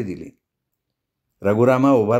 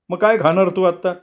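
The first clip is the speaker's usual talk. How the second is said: put-on drunk Nago; 6 semitones higher than usual. A narrator's reading. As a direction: soothe a friend while tipsy. Nago asks Amma. (बेनवाला शांत करणारा दारू प्यालेला नागो, सावकाश बोलत)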